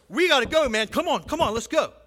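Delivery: high and loud, hurrying the others along; like a man breaking into a sprint; urgent excited shepherd. Retold or imitated. Shepherd urging the others to run to Bethlehem, high excited call.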